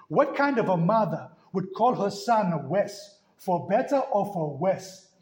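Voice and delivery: slow, imitated Zulu accent. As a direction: imitate a baffled Zulu man's accent, drawn out. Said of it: "his understanding with his accent".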